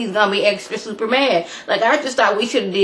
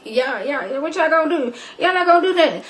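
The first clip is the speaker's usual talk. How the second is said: mock villain taunt; 7 semitones higher, faster than usual. Michael taunting the witches.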